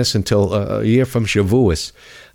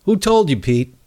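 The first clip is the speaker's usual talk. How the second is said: indignant; 4 semitones higher than usual. Real, not acted. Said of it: "that pissed me off".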